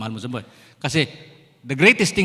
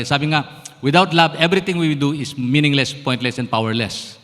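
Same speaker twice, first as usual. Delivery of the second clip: loud, rising preacher's declaration; full-force preaching; 4 dB louder than usual. Acted. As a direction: preach it hard to the congregation. (malakas na pangangaral)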